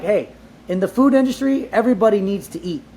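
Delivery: high, loud mock voice of the older generation quoting their motto; elders' family saying. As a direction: ham up the family elders' proud maxim, ending in a mock laugh. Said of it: "And they said".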